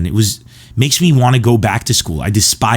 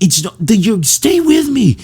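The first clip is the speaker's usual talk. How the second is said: exasperated teacher; 14 semitones higher than usual. Retold or imitated. Teacher correcting pranking students, high and exasperated. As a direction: explain it through gritted teeth like a tired teacher. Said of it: "he, we just like".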